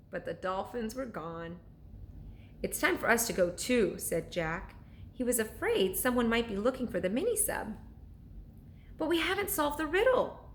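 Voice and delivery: bedtime read-aloud with character voices; storyteller reading to children; story narration. A narrator's reading. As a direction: read it like a chapter book to kids at night. Reads chapter book aloud.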